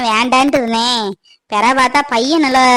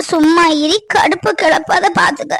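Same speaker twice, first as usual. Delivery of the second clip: higher, sharp annoyed yell; irritated shout; 4 semitones higher than usual. Acted. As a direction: snap at him to stop. Annoyed daughter snaps at brother.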